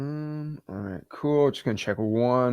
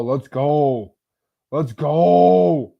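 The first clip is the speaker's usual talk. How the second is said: excited cheer; 3 semitones higher, 6 dB louder, much slower than usual. Real, not acted. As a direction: cheer it like a win. Cheering new signups.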